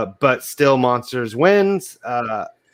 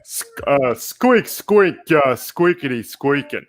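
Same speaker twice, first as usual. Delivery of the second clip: squeaky rubber duck. Acted. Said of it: "do the voice".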